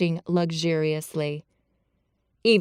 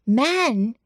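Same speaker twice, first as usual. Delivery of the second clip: low quick cry; 5 semitones higher, 3 dB louder than usual. A narrator's reading. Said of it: "cried in low, quick voices".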